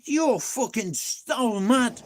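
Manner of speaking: slow, deliberate verdict; slow disbelief. Retold or imitated. Telling the mate he's mad, slow and deliberate. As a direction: lay it on him word by word.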